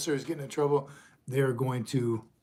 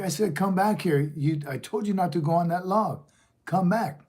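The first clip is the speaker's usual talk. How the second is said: mom insisting; 4 semitones higher than usual. Retold or imitated. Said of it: "She's like".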